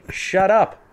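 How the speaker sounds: loud, high mock yell; retold angry retort. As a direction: belt it out to shut someone down. Retelling own retort to the woman.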